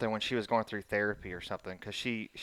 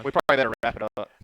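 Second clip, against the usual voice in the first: distorted voice; 6 dB louder, much faster than usual. Real, not acted. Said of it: "You sound like the devil".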